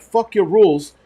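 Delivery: reenacted irritated comeback; retold angry retort. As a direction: act out defiantly brushing her off. Acted retort in store quarrel.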